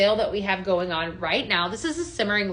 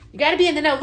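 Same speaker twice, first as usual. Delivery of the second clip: said through a laugh, a little higher; amused, giggling aside to viewers; laughing repeat; 4 semitones higher, 3 dB louder, much faster than usual. Real, not acted. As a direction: laugh while repeating the line.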